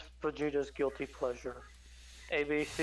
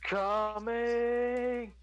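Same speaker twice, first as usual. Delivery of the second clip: excited shout; 9 semitones higher, much slower than usual. Acted. Shouted joke answers.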